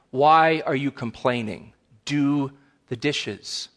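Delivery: measured, mildly stern parental lecture; lecturing parent. Acted. Parent tells complaining child to do dishes, mildly stern. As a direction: spell it out like a fed-up parent, restrained. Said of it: "responded like this before".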